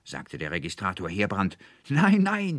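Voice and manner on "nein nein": very high, loud cry; shouted protest. A narrator's reading. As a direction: cry out in vehement denial. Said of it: "schrie der Student Anselmus". (lauter, hoher Aufschrei)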